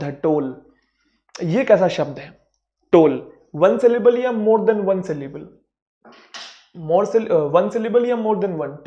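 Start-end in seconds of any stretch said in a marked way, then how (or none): 2.9-8.8 slow, loud questioning tone; slow quiz question. Shown as a demonstration. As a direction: ask the class slowly, drawing it out. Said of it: "quiz question to students".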